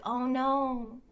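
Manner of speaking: playful retold worry; mock concern. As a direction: feign concern, about to crack up. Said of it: "I was concerned about him".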